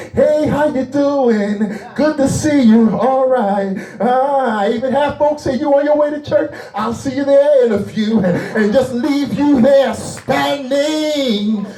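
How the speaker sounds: high, drawn-out sermon delivery; impassioned preaching. Acted. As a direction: act out the greetings in preaching cadence. Preacher acts out passing churchgoers.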